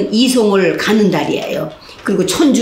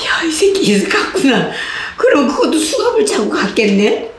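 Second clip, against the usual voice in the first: high voice laughing through the words; rueful laugh; 7 semitones higher than usual. Retold or imitated. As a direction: laugh it off in disbelief. Retold inner thought with laughter. (웃음 섞인 혼잣말)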